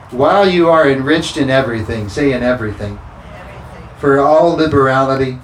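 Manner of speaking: loud, driving scripture preaching; full-force preaching. Acted. Pastor pushing scripture at the congregation, loud preaching. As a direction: preach it out over the room.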